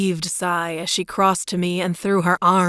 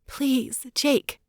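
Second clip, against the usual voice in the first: frantic; 7 semitones higher than usual. A narrator's reading. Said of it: "her voice frantic".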